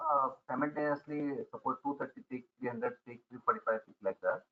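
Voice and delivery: very low, faint voice; speaking far too quietly; barely audible. Real, not acted. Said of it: "Sir, your voice is very low".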